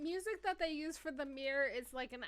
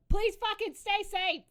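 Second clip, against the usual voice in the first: loud, high, slow plea; emphatic shout; 8 semitones higher, 11 dB louder, slower than usual. Real, not acted. Podcaster signing off to listeners, emphatic shouted plea. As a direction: shout it at the listeners, hitting every word. Mock-desperate repeat of sign-off.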